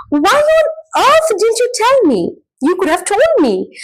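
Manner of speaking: high-pitched demand, swooping on "earth"; demonstrated exasperation, emphatic and pleading; exasperated reproach. Shown as a demonstration. Teacher giving an example of emotive questions, exasperated reproach.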